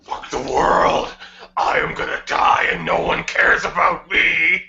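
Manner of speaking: grit teeth and rasp it from the back of the throat; gritty Sonic voice. Acted. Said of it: "The Sonic voice makes me lightheaded".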